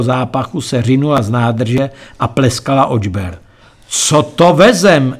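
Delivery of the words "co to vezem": slow, louder, higher outcry of disgust; shocked cry. Acted. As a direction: gag on the question in horror. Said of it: "vykřikl jsem".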